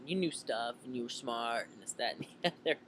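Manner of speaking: lightly voiced casual teen; teenager impression. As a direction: toss it off like a kid. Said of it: "I'm trying to do my best teenager impression".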